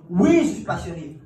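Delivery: loud, slow, emphatic yes; keen applicant answering loudly; eager loud answer. Retold or imitated. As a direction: shout your passion back at him.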